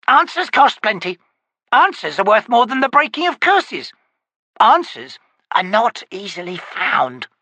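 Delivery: high, loud, scowling crone voice; scowling witch. Acted. Witch bargaining with the wizard, scowling crone voice. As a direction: grumble out the price like a sour hag. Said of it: "Scowling, the witch said".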